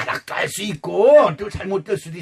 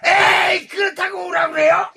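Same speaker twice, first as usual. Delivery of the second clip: incredulous protest; 11 semitones higher than usual. Retold or imitated. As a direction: push back in disbelief. Peter protesting, acted. (높고 큰 소리로 어이없다는 듯 항의)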